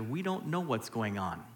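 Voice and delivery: softly and low: "we don't know what's going on"; hushed, almost to yourself; quiet, low statement. Shown as a demonstration. Same line repeated, escalating.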